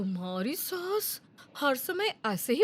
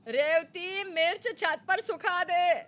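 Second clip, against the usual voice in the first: slower, louder, spelling out the order; mother-in-law repeats her order more slowly; repeated louder and slower; 5 semitones higher, 3 dB louder, slower than usual. Acted. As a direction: say it again, slow and emphatic for a deaf ear.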